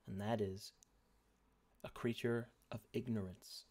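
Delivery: dramatic narration. Acted. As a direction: set the scene with gravity. GM narrating scene.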